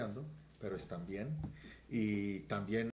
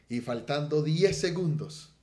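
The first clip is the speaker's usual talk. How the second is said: dramatic build; 5 semitones higher, 8 dB louder, slower than usual. Real, not acted. Climax of testimony.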